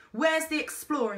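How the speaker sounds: high urgent desperate question. A narrator's reading. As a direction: ask in desperation. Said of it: "she said desperately".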